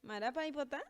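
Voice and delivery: lightly acted scared question; mildly startled. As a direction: ask it as if slightly taken aback. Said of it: "con ojitos bien abiertos y asustada".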